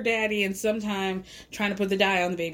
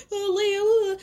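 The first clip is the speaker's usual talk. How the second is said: imitating fake tears, higher and louder; mock fake crying; 10 semitones higher, 4 dB louder than usual. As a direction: whine her name like a crocodile-tear sob. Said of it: "starts these fake tears".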